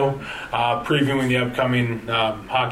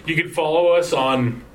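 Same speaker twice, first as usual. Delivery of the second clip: choking while talking; words caught in a choking throat; 4 semitones higher than usual. Real, not acted. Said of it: "as I'm choking here".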